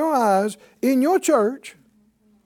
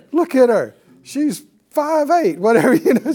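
laughing louder, delighted over "Look at her"; 4 semitones higher, 6 dB louder than usual. Real, not acted. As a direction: let the laugh spill into the words. Laughing over the healed woman.

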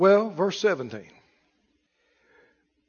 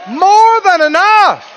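very high, loud, slow proclamation; shouted preaching; 11 semitones higher, 12 dB louder, slower than usual. Acted. Preacher shouting praise to the congregation. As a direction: shout it to the back row.

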